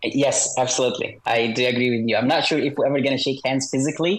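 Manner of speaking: electronically altered voice; disguised deep voice. Real, not acted. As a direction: voice disguised for anonymity. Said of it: "your voice has been altered".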